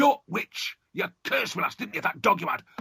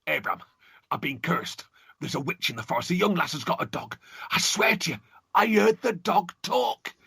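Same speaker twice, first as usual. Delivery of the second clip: frightened father; 6 semitones higher than usual. Acted. Cursed father pleading with son.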